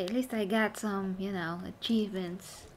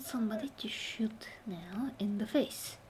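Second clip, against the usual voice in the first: whispering; 7 dB quieter than usual. Real, not acted. Hunting enemies quietly.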